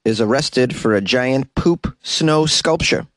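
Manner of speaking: slow, heavy mock Russian accent; hammy fake Russian accent. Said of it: "this terrible Russian accent".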